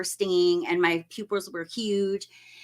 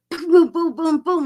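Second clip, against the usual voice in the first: stabbing sounds; 8 semitones higher, 7 dB louder than usual. Retold or imitated. Acting out stabbing motions.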